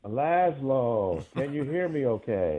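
distant, hollow phone line; underground bunker. Real, not acted. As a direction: sounds like calling from a concrete bunker. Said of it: "in an underground bunker".

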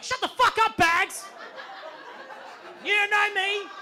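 high-pitched, loud yell at the bags; acted-out freak-out shout, far above normal pitch; loud outburst. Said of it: "after that loud outburst".

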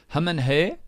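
"Hum and her" for him and her, in a Kiwi accent; flat New Zealand vowels. Shown as a demonstration. Host drilling "Hum and her" in New Zealand accent.

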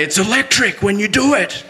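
quoting his father's rugby line with a laugh; imitating dad. Son imitating his rugby-loving dad, laughing. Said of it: "as he would say".

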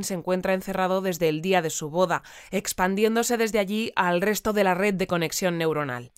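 crisp newsreader delivery; news read. Acted. Radio anchor reading the futuristic news headlines, newsreader style.

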